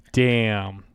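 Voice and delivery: laughing through the word. Real, not acted. Laughing at a co-host's insult. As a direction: crack up mid-word.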